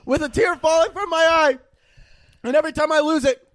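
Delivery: melodramatic lyric reading. Acted. Reading the quote of the week, mock weepy. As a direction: ham up a sad love song. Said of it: "The quote goes".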